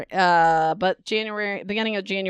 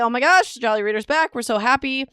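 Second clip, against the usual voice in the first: mock fan squeal; 4 semitones higher, 3 dB louder than usual.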